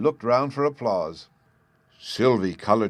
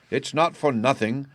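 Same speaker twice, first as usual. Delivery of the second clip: angry growl; 6 semitones higher than usual. A narrator's reading. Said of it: "growled the angry father".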